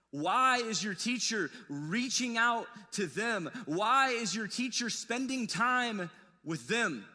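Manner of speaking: drawn-out pointed whys; slow accusing questions. Retold or imitated. Pharisees questioning disciples, slow and accusing. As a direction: press each why slowly. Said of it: "what the Pharisees were asking".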